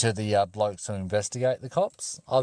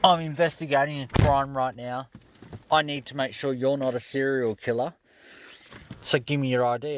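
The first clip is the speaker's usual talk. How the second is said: mock cop voice; 5 semitones higher than usual. Cop voiced in retold story.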